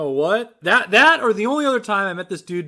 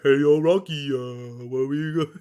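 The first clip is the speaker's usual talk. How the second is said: low, dopey cartoon moose voice; Bullwinkle; 6 semitones lower, 3 dB quieter than usual. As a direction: put on a lumbering cartoon sidekick voice. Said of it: "more of a Bullwinkle guy".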